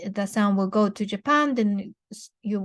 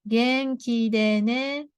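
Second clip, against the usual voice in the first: slow demo; slower than usual. Shown as a demonstration. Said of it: "Repeat after me".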